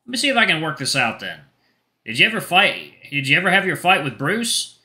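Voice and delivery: light mentor voice, curious; Bucky questioning. Acted. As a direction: gently probe like a concerned coach. Bucky questioning Xander quietly.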